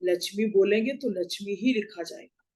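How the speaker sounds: both लक्ष्मी as "lachhmi"; लक्ष्मी said with chh; common mispronunciation. Shown as a demonstration. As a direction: replace ksh with छ each time in लक्ष्मी. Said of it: "कभी-कभी उसको लक्ष्मी बोल दिया".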